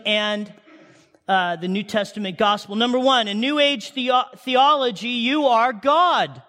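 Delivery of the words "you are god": emphatic shout. Real, not acted. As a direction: drive it home with a slow shout. Preacher hammers New Age claim.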